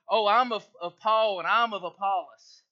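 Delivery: loud imitation of rival boasters; mock boasting. Pastor mimicking factions bragging over their leaders, mock boastful. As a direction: crow it loudly, as if claiming rank.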